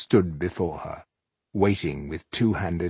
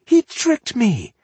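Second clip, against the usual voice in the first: high, slow grudging admission; 6 dB louder, slower than usual. A narrator's reading. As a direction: admit it reluctantly. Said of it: "admitted Millennia".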